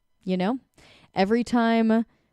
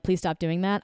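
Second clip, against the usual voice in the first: calm, firm request. Shown as a demonstration. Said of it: "I'm standing in my power".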